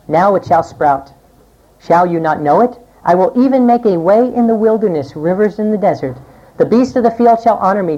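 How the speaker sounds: solemn read from Isaiah; scripture reading. Acted. Preacher reads Isaiah's promise to the congregation, solemn and measured.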